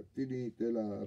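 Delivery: doctor stopping the quarrel, loud; protesting. A narrator's reading. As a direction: cut them off loud and slow. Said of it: "protestò il medico".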